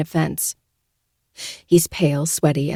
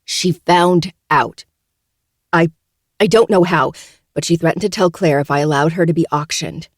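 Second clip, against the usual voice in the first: desperate; 4 dB louder than usual. Acted. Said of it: "with desperation".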